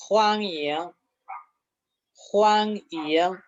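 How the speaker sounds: HUANGYING level, then dipping and rising; first plus second tone. Shown as a demonstration. Teacher modelling for students, HUANGYING level then rising. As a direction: hold HUANG steady, swing YING upward. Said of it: "primer tono más segundo tono".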